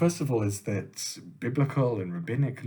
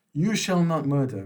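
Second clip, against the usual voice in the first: God commanding Moses; 2 semitones higher, 4 dB louder than usual. Acted. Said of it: "I'm going to say".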